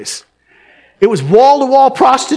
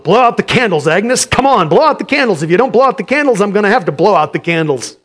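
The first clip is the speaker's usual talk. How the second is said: gruff mumble; 4 dB louder than usual. Acted. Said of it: "Harry gruffly mumbled".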